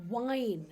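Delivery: wine with rounded lips; W sound. Shown as a demonstration. Teacher showing the W version of wine. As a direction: start wine with a W. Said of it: "round your lips".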